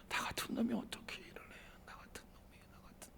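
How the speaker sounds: fading to nothing; self-loathing whisper. Pretend. A broken man whispering how worthless he is. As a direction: let the voice die away in shame.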